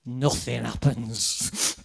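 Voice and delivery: slow, low, flat verdict; blunt deadpan. Retold or imitated. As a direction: let each word drop, slowly. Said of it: "He went".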